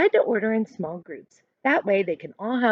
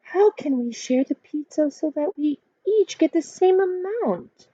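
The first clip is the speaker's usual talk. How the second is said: a hint of a curious girl, pitched up; wondering child; 7 semitones higher than usual. A narrator's reading. Sophia wonders aloud to her friends, lightly voiced. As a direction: ask it like a puzzled kid. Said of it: "Sophia wonders".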